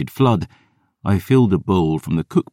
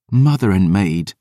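scoff; 4 semitones higher, 3 dB louder than usual. Acted. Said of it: "Dior scoffed".

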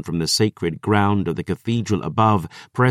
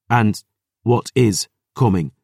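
scoffing; 2 semitones higher, 3 dB louder than usual. Acted. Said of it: "Rain scoffed".

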